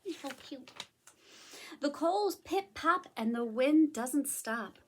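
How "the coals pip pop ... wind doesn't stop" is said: picture-book storytelling; story narration. A narrator's reading. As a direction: read to little children, slowing for the sleeping bear. Reads a story aloud.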